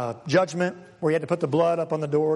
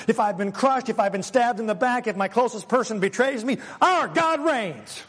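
fired-up preaching; 4 semitones higher than usual. Real, not acted. Preacher building to climax.

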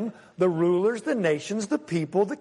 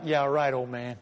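amused disbelief; 5 semitones lower than usual. Retold or imitated. Teenager answering an old man's race challenge, amused disbelief. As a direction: humour him, only half believing it. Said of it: "it was kind of a laugh like".

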